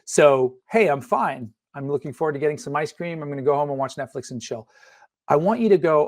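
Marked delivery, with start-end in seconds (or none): 0.7-4.7 actor line reading. Shown as a demonstration. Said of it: "as if you were the actor".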